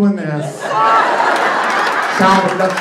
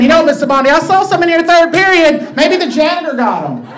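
reassuring coach; 9 semitones higher, 7 dB louder than usual. Retold or imitated. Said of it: "picture me saying".

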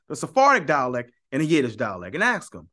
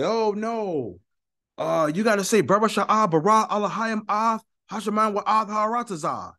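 raised, singsong parody of a rival Hebrew dialect; mocking the brothers; 3 semitones higher than usual. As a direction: mimic pedantic brothers insisting on their pronunciation, pitched up. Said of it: "the brothers that'll say".

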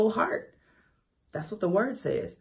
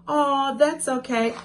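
high, slow, cooing reassurance; soothing parent; 8 semitones higher, slower than usual. Acted. Parent soothing a crying child, in a high, cooing voice. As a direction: draw it out like comforting a little one. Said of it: "when you see your child crying".

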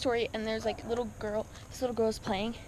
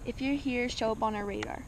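spooky hushed call; 3 semitones lower, 7 dB quieter than usual. Pretend. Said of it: "we're gonna say".

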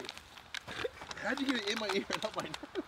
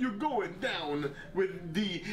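slow, halting celebrity impersonation; Christopher Walken; much slower than usual. Pretend. Player showing his friend the impression, slow celebrity impersonation. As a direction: stretch out each word like the film star. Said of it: "It's Christopher Walken".

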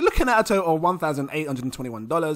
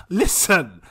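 ordinary delivery

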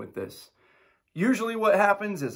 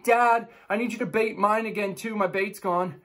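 put-on kid barking; 5 semitones higher than usual. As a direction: bark it like an impatient kid. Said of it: "the next one's barking at me".

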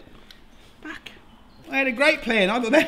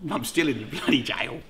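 normal talking voice

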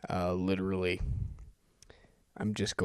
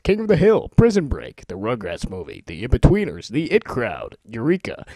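rushed excited title rundown; speed-reading titles; 3 semitones higher, 5 dB louder than usual. Shown as a demonstration. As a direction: rattle off titles, higher and louder, racing the scroll. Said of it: "read from my Netflix instant queue as quickly as I can".

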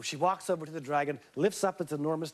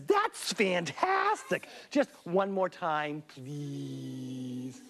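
gushing flattery; 2 semitones lower, much slower than usual. Acted. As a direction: lay the praise on thick. Elizabeth flattering dragon.

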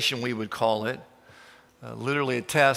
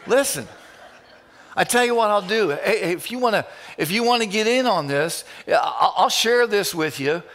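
excited Graham Cook; 3 semitones higher than usual. Retold or imitated. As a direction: cheerfully spill big news to a friend. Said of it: "he would say".

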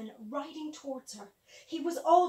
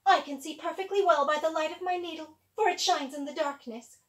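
haughty stepsister; 2 semitones higher, 6 dB louder than usual. Acted. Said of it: "said the sister who sewed".

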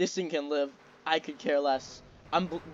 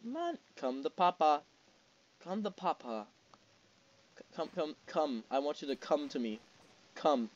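coaxing murmur; 6 dB quieter than usual. Real, not acted. Coaxing a game target.

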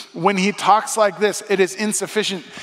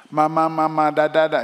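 put-on baby babble. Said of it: "remember when your kids first start talking".

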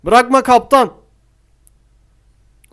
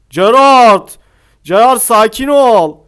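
calling out; 2 semitones higher, 5 dB louder, slower than usual. Real, not acted. Calling out to player.

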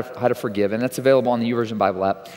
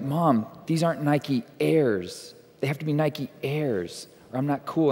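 put-on whiny kid; 7 dB quieter, slower than usual. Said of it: "I'm like".

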